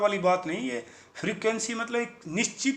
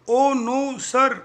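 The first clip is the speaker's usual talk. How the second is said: anxious placating; 5 semitones higher, 6 dB louder, much slower than usual. Acted. Frightened crew placates boss.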